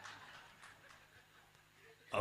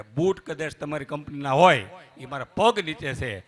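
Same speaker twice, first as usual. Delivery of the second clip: proud retort; 6 dB louder than usual. Retold or imitated. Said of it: "ખૂબ સરસ જવાબ આપ્યો".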